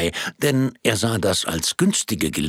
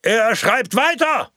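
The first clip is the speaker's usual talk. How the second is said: high called-out line from the audience; 14 semitones higher, 4 dB louder than usual. Acted. Audience member calls out to the projectionist, high call. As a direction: call it out toward the front. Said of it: "rief ein Erster".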